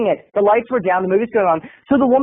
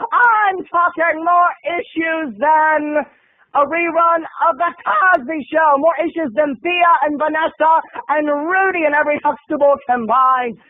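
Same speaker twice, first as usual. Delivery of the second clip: higher, stretched-out exaggeration; emphatic comic rant; 6 semitones higher than usual. Storyteller describing the girl's many issues, emphatic rant. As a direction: build a hammed-up tirade.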